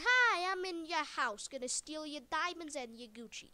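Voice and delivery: cheeky home-invading pig man, lightly voiced; pig man intruder. Pig man barging into the viewer's house, mock cheeky voice. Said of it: "pig man just saying".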